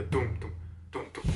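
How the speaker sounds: low, soft drum-like thumps; imitated heartbeat. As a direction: mimic a funny heartbeat, fading away. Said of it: "the funny heartbeat".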